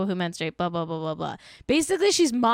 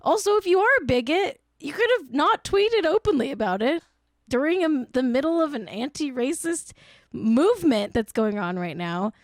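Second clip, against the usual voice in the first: outraged rant; 5 semitones higher than usual. Real, not acted.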